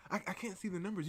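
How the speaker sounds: soft, meek mock plea; student pleading with the teacher; timid student. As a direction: say it small and scared.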